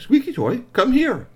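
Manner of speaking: high, loud summons; loud, high beckoning call. Acted. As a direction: call the toy over, pitched high. Calling the toy over.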